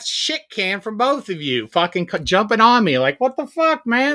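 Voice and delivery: real indignant outburst, pitched high; indignant protest. Real, not acted. Host ganged up on by both co-hosts, indignant protest.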